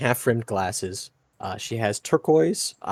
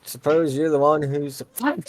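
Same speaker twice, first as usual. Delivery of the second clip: attempted southern accent; 5 semitones higher than usual. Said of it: "I can do southern accents".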